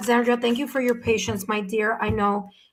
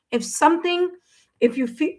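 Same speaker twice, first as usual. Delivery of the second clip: hiccuping mid-sentence; words broken by hiccups; 4 semitones higher than usual. Real, not acted. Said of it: "I have the hiccups now".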